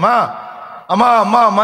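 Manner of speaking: imitating a frightened child calling mother; mock child's cry. Preacher voices a scared child calling mother, mild mock cry. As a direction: cry out for mom, lightly acted. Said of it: "కేకలేసింది".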